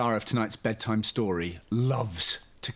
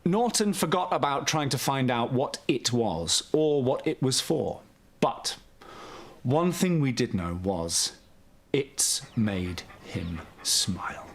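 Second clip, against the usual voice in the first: gentle, lively storybook reading; bedtime story narration. A narrator's reading. Host reading a bedtime story to young children, soothing storyteller. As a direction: read it like a children's picture book at bedtime.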